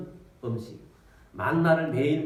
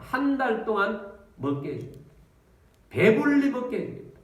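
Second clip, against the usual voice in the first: God's promise rising higher and louder; booming promise; 6 semitones higher, 3 dB louder than usual. Acted. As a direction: declare the promise with power. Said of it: "하나님께서 이렇게 말씀하십니다".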